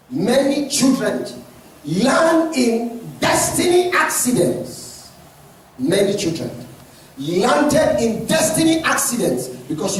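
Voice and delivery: urgent pulpit warning; emphatic preaching. Real, not acted. Preaches at full force.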